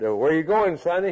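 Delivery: man asking. Retold or imitated. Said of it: "man came up to him and said".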